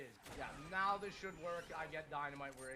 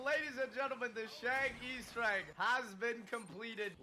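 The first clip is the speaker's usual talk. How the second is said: mock grand announcement, louder; announcer voice; 5 semitones higher, 7 dB louder than usual. Real, not acted. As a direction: announce it like a showman. Announcing the finished Easter egg.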